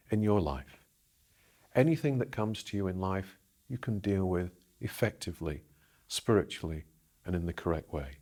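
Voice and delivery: measured meditation voice with firm emphasis and long pauses; deliberate, spacious guiding delivery; guided visualisation. Acted. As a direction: lead the listener through an imagined scene, phrase by phrase.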